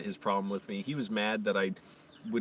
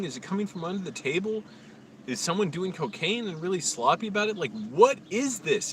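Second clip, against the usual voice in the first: higher, baffled questioning to himself; puzzled wondering; 6 semitones higher than usual. Retold or imitated. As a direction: wonder aloud, higher and bewildered.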